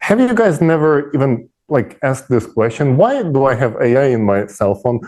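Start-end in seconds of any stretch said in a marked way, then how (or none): 3.0-5.0 fast, rising string of puzzled questions; rapid-fire questions. Retold or imitated. Voicing people's puzzled questions.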